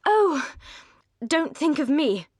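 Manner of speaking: high, loud, eager protest; spirited earnestness. A narrator's reading. Marianne earnestly brushing off Edward's concern for her. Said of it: "with spirited earnestness".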